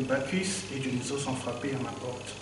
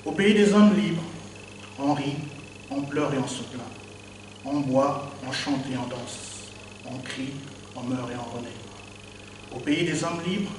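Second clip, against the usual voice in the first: slam performance. Acted. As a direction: perform it to the crowd, hitting each refrain. Performs his own slam poem.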